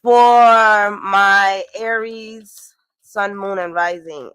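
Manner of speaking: slow and loud, stretching out the first word; drawn-out announcement. Shown as a demonstration. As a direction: call the sign out like an announcer. Drawn-out opening call of sign.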